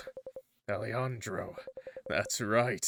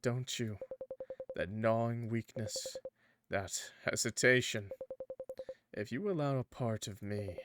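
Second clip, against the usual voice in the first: tempting dark entity. Acted.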